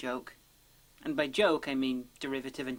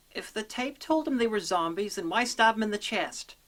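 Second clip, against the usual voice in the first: higher-pitched, baffled challenge; exasperated questioning; 5 semitones higher than usual. Acted. Reviewer questioning why he stabbed them, exasperated. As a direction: argue it up high, demanding an explanation. Arguing both cases of plot hole.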